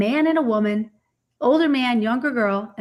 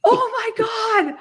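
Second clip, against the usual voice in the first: stunned gasp; 11 semitones higher, 4 dB louder, much slower than usual. Retold or imitated. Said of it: "I went".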